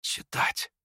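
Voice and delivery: hushed, crushed whisper; voiceless, stunned murmur. A narrator's reading. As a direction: whisper it as if fate had sentenced you. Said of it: "прошептал Ипполит".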